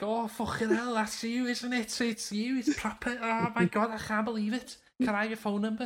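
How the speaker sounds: high-pitched mock fangirl gushing; starstruck girls. Girls think they have the actor on the phone, high excited mimicry.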